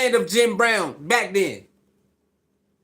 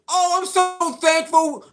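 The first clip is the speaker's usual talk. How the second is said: high, put-on humble thanks; mock gratitude; 5 semitones higher than usual. Parroting what critics want Shedeur to say, mock gratitude. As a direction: exaggerate the thankfulness in a raised voice.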